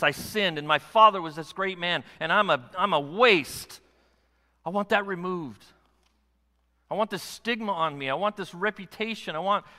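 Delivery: a blind beggar pouring out his shame; Bartimaeus pleading. Retold or imitated. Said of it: "he's saying".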